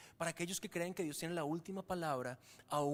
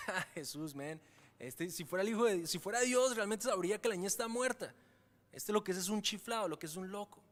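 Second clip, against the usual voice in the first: mocking scoffer. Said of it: "ahora estaban".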